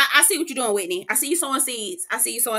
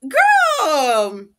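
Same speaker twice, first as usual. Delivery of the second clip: slow aside; 3 semitones higher, 3 dB louder, much slower than usual. Retold or imitated. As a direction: drag it out, unimpressed. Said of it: "I was like".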